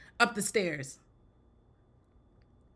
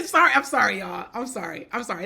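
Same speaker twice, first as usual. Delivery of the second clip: laughing apology; 4 dB louder than usual. Real, not acted. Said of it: "That was too much".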